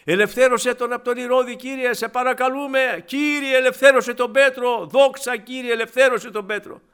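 loud, high pleading prayer; fervent cry. Retold or imitated. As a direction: cry out to the Lord begging. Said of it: "Τι φωνά".

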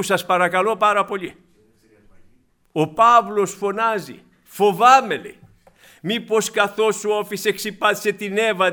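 loud, impassioned sermon voice; fervent pulpit exhortation; full-force preaching. Acted. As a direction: preach it out, pleading with the flock.

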